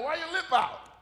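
loud, high-pitched mock questioning; teasing God. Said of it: "God's like".

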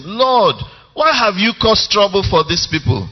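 high, fast, urgent plea to God; pleading heart cry. Retold or imitated. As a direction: Moses crying out to God, pressing and pleading.

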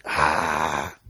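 breathy, held-back mock scream; muted retold scream. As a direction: imitate a scream into a pillow, softly. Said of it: "I just screamed".

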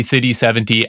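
"thirty seventy" with no r in "thirty"; South African "thirty". Shown as a demonstration. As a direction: say "thirty" like "thitty" before "seventy". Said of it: "I still kinda do say it like that".

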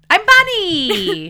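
high, slow, loud mock commentator; golf commentator voice. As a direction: ham up a golf announcer. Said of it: "That's our golf commentator voices".

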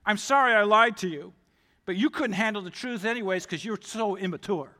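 sorry that turns into a put-down; apologize, then sneer at them; a grudging sorry with a dig; snide apology. Shown as a demonstration. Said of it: "That's the attitude".

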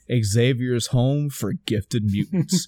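slow reveal. Pretend. Dramatic reveal of plaque.

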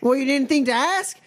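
puritan voice. Acted. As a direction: scold them for not asking. GM plays puritan.

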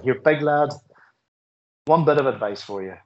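put-on a light Belfast accent for a little caretaker lady; friendly Belfast accent, lightly put on; hint of a Belfast caretaker giving advice. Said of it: "in her very best Belfast accent".

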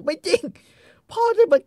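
high, loud protest; shocked outcry. Retold or imitated. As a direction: cry out in disbelief at her father. Kay shocked, protesting parents. (ร้องเสียงสูงอย่างไม่อยากเชื่อ)

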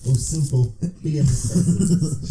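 slow, halting mock Walken delivery; lightly voiced Walken, deliberate pauses; Christopher Walken impression. Friends joking at the mic, a slow mock Walken read. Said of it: "the Christopher Walken version".

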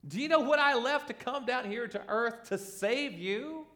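high, disbelieving retort; incredulous Jesus. Retold or imitated. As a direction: sound stunned that they could say it. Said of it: "And it's like".

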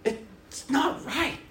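hammed-up protest at being woken; mock outrage.

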